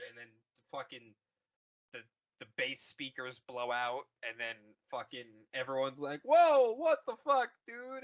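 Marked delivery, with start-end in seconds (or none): 6.2-8.0 much higher, loud startled cry; mock shock. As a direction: freak out at the chaos. Everyone reacts to blown speakers.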